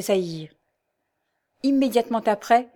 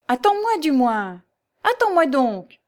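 put-on high, loud, cross old mother calling after her daughter; enraged shout; 6 semitones higher, 4 dB louder than usual. A narrator's reading. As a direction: call out crossly, drawing out the plea. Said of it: "lui cria d'une voix rageuse".

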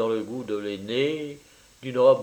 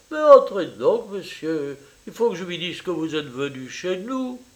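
higher, effusive Italian mother welcoming a guest; eager landlady mother; 5 semitones higher than usual. Acted. Mother welcoming her daughter's French lover, eager and high. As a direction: gush over the visitor, pitched up.

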